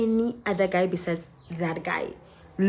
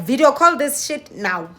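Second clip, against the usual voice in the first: angry demand; 3 semitones higher than usual. Retold or imitated. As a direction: demand it now, fuming. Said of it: "I'm like".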